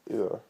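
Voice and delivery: "oor" with a long oo and a rolled r; Scots "oor". Shown as a demonstration. Teaching Scots words, a drawn-out "oor". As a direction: say "oor" for "over". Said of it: "over would be over".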